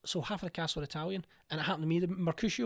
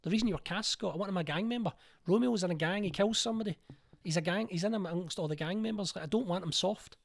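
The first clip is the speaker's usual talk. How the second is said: insistent director; 4 semitones higher than usual. Retold or imitated. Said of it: "And she's like".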